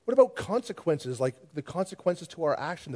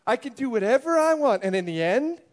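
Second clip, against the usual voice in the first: angry rant; 6 semitones higher, 5 dB louder than usual. Acted. Rival pastor angrily rebuts Grace.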